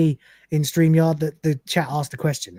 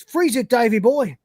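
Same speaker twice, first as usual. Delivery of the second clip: heroic shout; 5 semitones higher than usual. Acted. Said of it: "and shouts".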